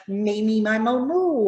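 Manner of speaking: put-on punchy over-articulated "Baby, Bible, boo"; consonant drill. Shown as a demonstration. Teacher demonstrating a diction warm-up to learners, exaggerated articulation. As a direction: pop every b with the lips. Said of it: "maybe I say".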